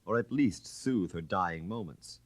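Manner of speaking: a hint of a suave Chevalier building his story; Chevalier telling his tale. Floriani tells his story in character.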